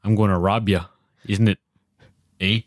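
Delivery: lightly put-on Canadian accent; easygoing mock Canadian accent. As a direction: play a polite robber with a Canadian accent. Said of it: "that's your Canadian accent".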